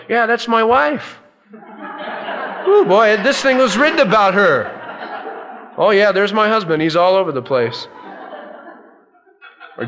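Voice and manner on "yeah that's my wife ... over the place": mocking a smug reader. Churchgoer smugly spotting their spouse in Scripture, laughing. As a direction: gloat at your spouse's faults. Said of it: "too often we read the Bible".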